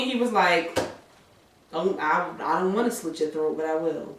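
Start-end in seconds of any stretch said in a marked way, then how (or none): 1.7-4.2 threatening. Retold or imitated. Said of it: "in, like, a threatening way".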